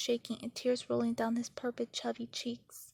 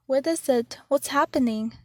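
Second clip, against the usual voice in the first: alarmed mother; 3 semitones higher, 8 dB louder than usual. Acted.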